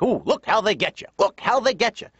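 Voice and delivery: lightly voiced suspicious dad. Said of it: "my dad has expressions like".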